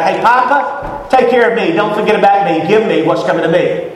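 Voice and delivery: a hint of a begging child; whiny son. Prodigal son asking his father, mildly whiny. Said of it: "He goes to his daddy with his hand out".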